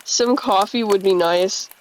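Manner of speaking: put-on a light New York accent, leaned on a bit. Jesse ordering breakfast, light New York accent. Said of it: "leaning too much in a New York accent".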